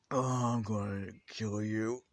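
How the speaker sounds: slow, drawn-out mock growl of a threat; pissed-off threat. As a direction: drag the threat out through an injured jaw. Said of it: "Bakugo is being pissed".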